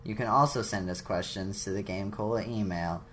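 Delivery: even, middle-of-the-road announcement; studied, uninvested sign-off read; deliberately neutral. Pretend. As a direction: read it out with completely average energy. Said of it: "completely middle ground, all right".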